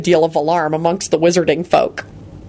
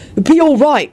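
reassuring; 8 semitones higher, 4 dB louder than usual. A narrator's reading. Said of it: "William announced".

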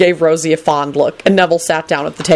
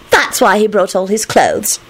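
put-on higher, slow girlish explanation; cheerful; 4 semitones higher, slower than usual. A narrator's reading. Rosie explains Neville's pile to Lupin, cheerful. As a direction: explain helpfully in a girlish lilt. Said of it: "Rosie offered up cheerfully".

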